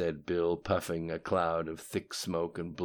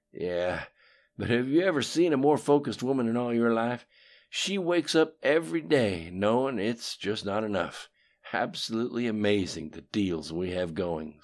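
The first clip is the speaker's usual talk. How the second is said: louder, higher boastful Bill; lightly voiced cocky politician; Bill's voice; 5 semitones higher, 6 dB louder than usual. A narrator's reading. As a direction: brag about old schemes, loud. Bill praises Hillary.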